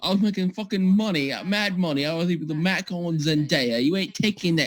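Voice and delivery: put-on a light, angry cockney accent; a touch of angry cockney; angry cockney Tom Holland. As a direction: lightly growl it as a cockney bloke. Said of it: "angry cockney Tom Holland".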